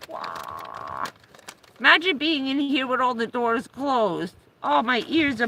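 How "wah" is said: imitated yelp. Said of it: "That yelping".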